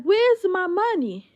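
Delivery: high, loud and slow demand; slow furious repeat; angry demand. Retold or imitated. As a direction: spell it out slowly, angry. Repeated confrontation.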